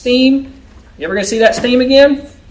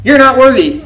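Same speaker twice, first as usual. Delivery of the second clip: a hint of a stern judge banging the gavel; lightly voiced judge condemning someone; mock judge's verdict; 4 semitones higher than usual. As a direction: pronounce the sentence like a self-appointed judge. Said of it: "bang the gavel and say".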